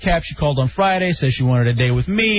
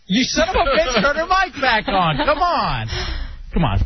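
exasperated; 9 semitones higher than usual. Real, not acted. Producer cut the mic.

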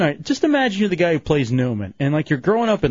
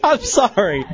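laughing apology; 4 semitones higher, slower than usual. Real, not acted. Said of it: "I can't do it".

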